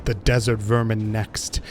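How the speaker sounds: understated villain monologue, imperious; lightly voiced tyrant god. Voices the boss's dialogue.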